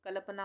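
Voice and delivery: कल्पना wrongly said with a full ल, ka-la-pana. Shown as a demonstration. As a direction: sound a vowel after the ल of कल्पना. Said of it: "पूरा ल बना देते तो". (कल्पना में पूरा ल, "कलपना")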